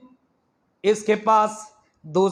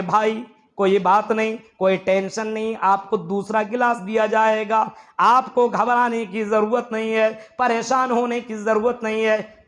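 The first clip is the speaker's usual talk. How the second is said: usual speaking voice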